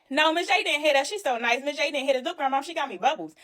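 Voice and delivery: a hint of children defending her; grandma's grandkids answer, lightly childlike; kids answering. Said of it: "They said".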